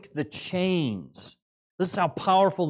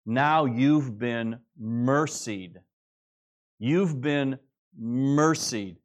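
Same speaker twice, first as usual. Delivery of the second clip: slow emphasis; much slower than usual. Shown as a demonstration. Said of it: "reads like this".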